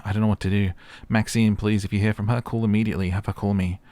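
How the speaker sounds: a frantic mother begging for news; worried mother. Acted. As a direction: plead as a mother afraid for her daughter. Voicing a worried mother's messages.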